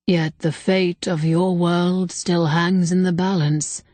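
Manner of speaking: slow and grave; solemn spirit voice. Acted. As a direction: speak like an ancient being, unhurried. Ancient spirit speaks.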